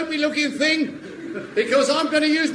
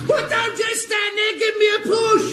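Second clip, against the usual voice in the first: shouting for help; 7 semitones higher than usual. Acted. Hodges stuck in mud yells.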